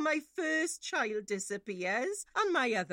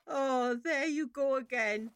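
scornful words breaking into tears; tearful scorn; 2 semitones higher than usual. Acted. Mother mocks the girlfriend through tears. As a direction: sneer at her while holding back sobs.

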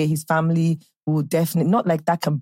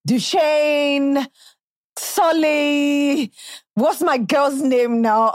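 put-on higher, drawn-out London-accented names; Top Boy accent; 7 semitones higher, much slower than usual. Fan recalling Top Boy characters, put-on English accent. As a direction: call out the names in mock British accent. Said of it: "thing that I used to say from Top Boy".

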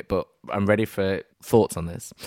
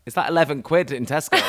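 high, fast, loud disbelief; shocked shout; 6 semitones higher, 5 dB louder, faster than usual. Retold or imitated. Friend finding the wine cheap at Tesco, shocked shout. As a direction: yell it as the bargain price hits you. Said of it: "it's like".

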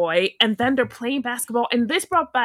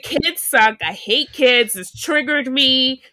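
ranting; 3 semitones higher, 6 dB louder, slower than usual. Retold or imitated. Girl ranting about boys after being mocked, building loud rant. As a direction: vent it, getting louder to the end. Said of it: "And then I was like".

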